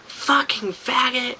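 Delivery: high, drawn-out mock yell, volume held back; imitated yell. Girl yelling at the speaker walking away, mock yell. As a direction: imitate a slow, far-off taunting yell. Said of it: "I hear the girl yell".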